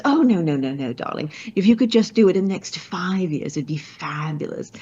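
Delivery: imitating the tall client's British accent, airy and breezy; mock British accent. Client waving off the deadline worry, in a light mock British accent. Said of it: "even has a British accent".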